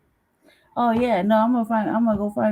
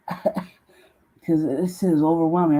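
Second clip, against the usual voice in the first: slow, drawn-out, laughing; overwhelmed laugh; 2 semitones lower, much slower than usual. Real, not acted. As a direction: let it stretch out through a laugh.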